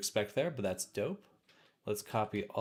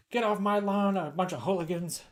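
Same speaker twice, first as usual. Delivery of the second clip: put-on cranky old man yelling, high and loud; 9 semitones higher, 7 dB louder than usual. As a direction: shout like a grumpy old neighbour. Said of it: "That's my old man voice".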